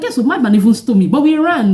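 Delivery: put-on excited child. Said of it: "And I was like".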